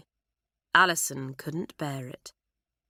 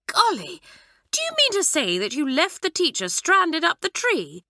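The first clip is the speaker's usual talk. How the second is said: astonished; 11 semitones higher, 3 dB louder than usual. A narrator's reading. Bobby astonished.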